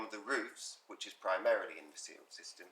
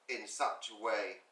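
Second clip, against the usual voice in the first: slow and spaced for dictation; slow school dictation. Shown as a demonstration. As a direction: dictate it with long pauses between phrases. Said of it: "take this at, at dictation speed".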